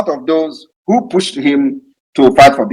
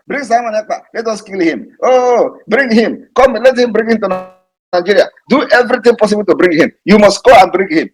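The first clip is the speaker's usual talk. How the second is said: higher-pitched mimicry of agitated opponents; mock their clamour, pitched up; imitating urgent demands; 5 semitones higher than usual. Mimicking opponents demanding his capture.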